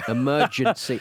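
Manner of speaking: "Emergency" sounded out with care; careful attempt. Shown as a demonstration. Co-host trying a word he cannot form, careful "Emergency". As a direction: work through "Emergency" syllable by syllable. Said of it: "Just cannot form the word emergency".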